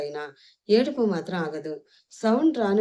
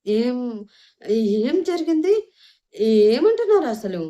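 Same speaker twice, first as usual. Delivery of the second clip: louder, higher dramatic questions; urgent questioning; 5 semitones higher, 6 dB louder than usual. A narrator's reading. Narrator opens the episode asking what happened, urgent. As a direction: ask it urgently, voice raised.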